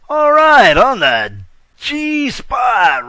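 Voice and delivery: loud, high shout of the segment name; hype announcement. Real, not acted. Host kicks off his G Spot segment with a high, loud shout. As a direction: call out G Spot like a jingle.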